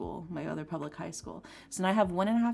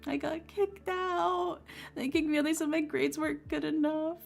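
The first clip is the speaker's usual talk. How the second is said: retold crying; 10 semitones higher than usual. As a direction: imitate herself sobbing out the bad news. Crying in the hallway.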